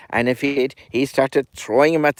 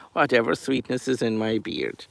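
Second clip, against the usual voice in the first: said through a laugh, softer; chuckling at his own beard; laughing repeat; 6 dB quieter than usual. Real, not acted. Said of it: "oh, Lord God Almighty".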